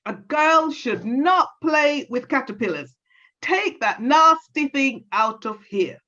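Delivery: high, scolding granny voice; vexed granny. Acted. Granny scolding Lorna about the caterpillar, angry and high. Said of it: "She always got vexed and angry and said".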